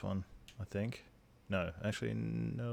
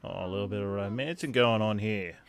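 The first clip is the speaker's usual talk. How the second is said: playfully overdone; hammed up; 3 dB louder than usual. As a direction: ham it up teasingly. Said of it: "I am hamming it up a little bit".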